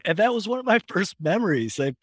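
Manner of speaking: ordinary talk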